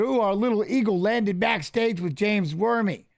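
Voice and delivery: lightly imitated fight commentator; Goldie. Retelling the commentator's mistaken nickname, light announcer imitation. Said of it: "Goldie called me".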